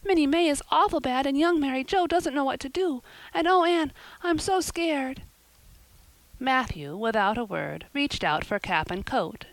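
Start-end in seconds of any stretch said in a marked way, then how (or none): 0.0-5.2 put-on high, loud and fast frightened girl; frightened girl telling her friend her sister is sick; panicked. A narrator's reading. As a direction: pour it out in panic. Diana panicking about sick sister.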